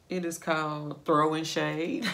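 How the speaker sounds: slow reveal rising on Shade; a slow punchline reveal; playful announcement. Real, not acted. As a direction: announce the name with glee. Reveals the joke shade name.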